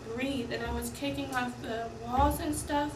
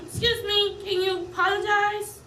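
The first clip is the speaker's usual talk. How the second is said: retold demand; 8 semitones higher, 7 dB louder than usual. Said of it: "I say".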